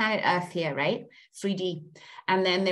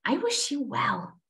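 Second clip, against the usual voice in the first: earnest guided affirmations; guided release ritual. Acted. Coach guiding group to cut karmic links, calm ritual voice. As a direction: lead them calmly through letting go.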